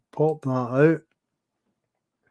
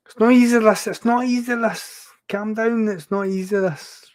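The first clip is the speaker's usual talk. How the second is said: mock exasperation; 8 semitones higher, 6 dB louder than usual. Streamer fumbling with setup, mock frustration.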